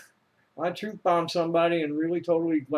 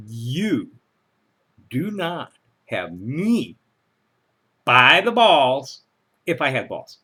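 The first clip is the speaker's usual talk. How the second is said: angry librarian voice; 4 semitones lower than usual. Acted. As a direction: read it like a cross librarian. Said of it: "in a properly angry librarian voice".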